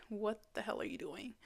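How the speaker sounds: hushed, breathy whisper of self-doubt; whispered inner voice. Retold or imitated. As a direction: whisper it like a nagging thought. Inner voice hissing at her.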